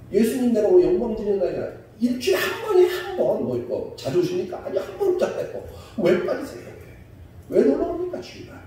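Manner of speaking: high-pitched, insistent pulpit questioning; exhorting preacher. Real, not acted. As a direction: press the congregation for an answer. Exhorts congregation about skipping Sunday.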